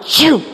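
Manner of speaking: quick whoosh of a launching cart; swooshing sound effect; imitated ride whoosh. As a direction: make the noise of sudden take-off.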